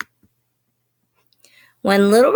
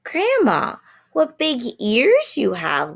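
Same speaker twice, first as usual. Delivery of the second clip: put-on high little girl; 6 semitones higher than usual. A narrator's reading. Girl nervously questions wolf.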